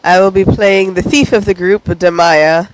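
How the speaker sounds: congested, phlegmy voice from a cold. Real, not acted. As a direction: talk through a chesty head cold. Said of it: "I've got my sexy phlegmy voice on".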